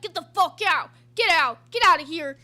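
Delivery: loud mock shout at the customer; retold furious yell. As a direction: yell him out of the store, hammed up. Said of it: "He's like".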